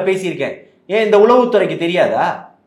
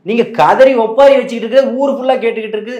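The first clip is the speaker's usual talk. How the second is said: raised, pressing rebuttal; heated retort; 5 semitones higher than usual. Real, not acted. Party speaker retorts to the interviewer about rivals' wailing, heated. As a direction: push back hard at a critic.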